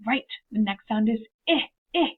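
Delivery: "eh, eh" said as an isolated short vowel; segmenting the sound. Shown as a demonstration. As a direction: stretch out "eh" for the children. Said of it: "I go".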